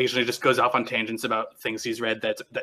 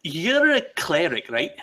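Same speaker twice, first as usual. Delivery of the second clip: curious Nyctis; 5 semitones higher, 3 dB louder than usual. Acted. Nyctis questioning Hargath.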